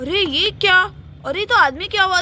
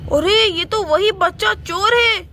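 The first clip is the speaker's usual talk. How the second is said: shocked recognition; 2 semitones higher than usual. Acted. Man recognizes child thief.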